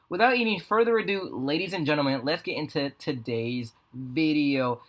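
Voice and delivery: drawn-out hype host intro; slow, grand show-opening voice; announcer voice. Acted.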